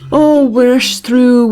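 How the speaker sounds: put-on mother wailing slowly for her lost children; keening lament. A narrator's reading. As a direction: stretch the Oh into a grieving cry. Mother wails in grief.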